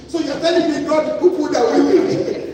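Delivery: loud, laughing through the words. Real, not acted. Retelling absurd drunk argument, laughing.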